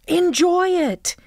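slow whispered advice. Acted. The speaker on video, slowly whispering to the winner. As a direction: breathe it like a secret.

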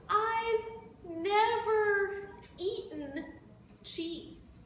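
slow, a touch of a whimper, gently begging; mild pleading elephant. Acted. Elephant begs the bird for cheese, slow mild whine. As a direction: draw it out like a sad little elephant. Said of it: "started to cry".

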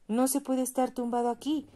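a guard shouting at the homeless. A narrator's reading. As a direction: bark the order like a stern guard. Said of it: "les gritó un guardia".

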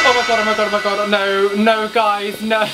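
breathless oh my god repeated; panicked. Real, not acted. Scared gamer begging viewers, panicked. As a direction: plead with the game to stop.

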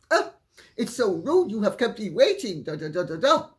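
whiny complaint, retold with a dismissive tail; mock complaining. Guest complaining to her host about waiting, mock indignant. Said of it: "she started to complain".

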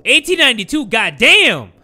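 high, loud disbelief; amazed outburst. Real, not acted. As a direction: burst out in shock at the date. Amazed at the date.

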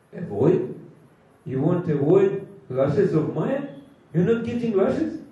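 mock disbelief, each question rising at the end; acted incredulous questioning. Guru challenges disciple who would avoid Maya's lashes, incredulous questions.

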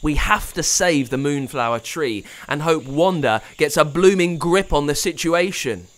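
high, loud, urgent warning; rally everyone fast; panicked shouting boy; urgent alarm. A narrator's reading.

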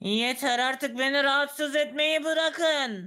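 irritated. Acted. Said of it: "ne diye sinirleniyorsun".

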